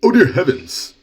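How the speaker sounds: put-on high, loud gasp of a fussy old lady; mock shocked lady. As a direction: clutch your pearls and squeal it.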